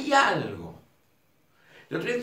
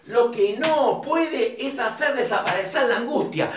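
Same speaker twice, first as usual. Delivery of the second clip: read slowly. Shown as a demonstration. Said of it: "te lo voy a leer despacito".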